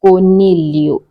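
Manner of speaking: coniglio pronounced without a hard G; silent G. Shown as a demonstration. Giving learners the Italian word for rabbit, coniglio with silent G. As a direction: keep the G silent in coniglio, ending in "lyo". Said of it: "G is silent".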